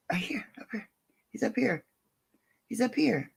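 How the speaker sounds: excited gasp then a hushed whisper; breathy hushed. Real, not acted. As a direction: point him out in a whisper. Gasps, whispers to the dog.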